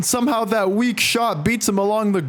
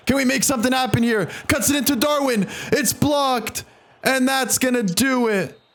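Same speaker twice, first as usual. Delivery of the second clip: urgent excited call; 5 semitones higher than usual. Real, not acted. Last attack fails, game ends.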